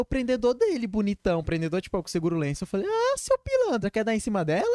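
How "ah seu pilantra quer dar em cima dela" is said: mock indignant accusation. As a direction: drag out the Ah like a playful scold. Friend gives girl his clip. (indignação fingida, aguda e arrastada)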